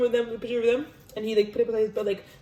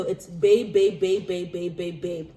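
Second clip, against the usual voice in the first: babe; 3 semitones lower, 4 dB louder, slower than usual. Retold or imitated. Mocking what couples call each other.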